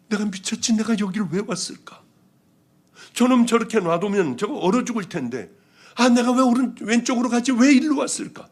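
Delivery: rising irritated self-talk, pitch climbing; annoyed grumble. Retold or imitated. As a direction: grumble at yourself for taking the wrong road. Grumbling to herself about coming here.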